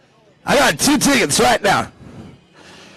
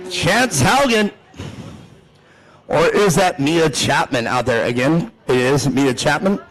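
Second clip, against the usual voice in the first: lower, measured driver introductions; race announcer; 6 semitones lower than usual. Real, not acted. Announcer introducing the drivers row by row, low announcer delivery. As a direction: present the starting grid over the PA.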